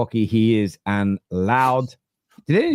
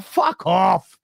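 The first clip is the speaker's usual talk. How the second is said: inner shout; 12 semitones higher than usual. Retold or imitated. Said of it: "I'm like".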